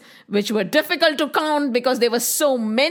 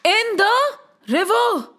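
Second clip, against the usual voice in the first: put-on slightly raised, urgent child's plea; pleading child; 4 semitones higher than usual. Frightened friends beg Krishna for help, pleading.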